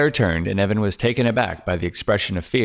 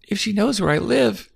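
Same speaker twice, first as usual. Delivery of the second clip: higher, relieved frightened woman's voice; frightened young woman; 12 semitones higher than usual. Acted. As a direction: play Claire, scared and clinging to hope.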